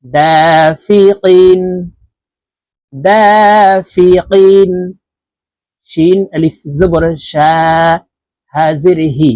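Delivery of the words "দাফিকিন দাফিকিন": দাফিকিন drawn out slowly, vowels held; slow recitation. Shown as a demonstration. Teacher chanting দাফিকিন for the class. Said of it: "কফ দুই জের কিন".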